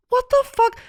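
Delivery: high, loud disbelief; mock-appalled outburst; appalled reaction. Host finding the mess on her floor, appalled.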